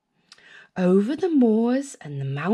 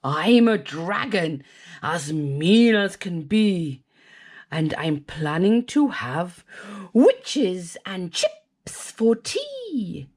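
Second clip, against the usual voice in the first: lightly voiced dragon; 2 semitones lower than usual. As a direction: growl out the threat, slow at the end. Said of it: "a roar that was scary and loud".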